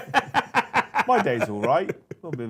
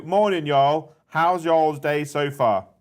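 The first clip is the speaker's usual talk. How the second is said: put-on American accent; 3 semitones higher, 4 dB louder, much slower than usual. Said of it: "Is that your best American accent?".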